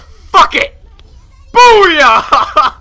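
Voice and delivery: high, loud booyah; real victory whoop; triumphant yell. Real, not acted. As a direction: cheer like you just won.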